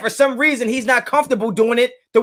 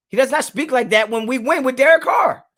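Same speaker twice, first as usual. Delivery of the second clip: heated shout; 4 semitones higher than usual. Real, not acted. Heated sports argument.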